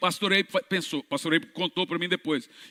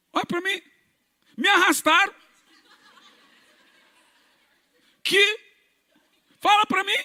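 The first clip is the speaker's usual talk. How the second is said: high, loud sulky complaint; defiant bad boy; 13 semitones higher, 3 dB louder than usual. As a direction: whine like a bitter man forced to come. Homem de cadeira de rodas, revoltado. (imitando o homem revoltado, agudo e alto)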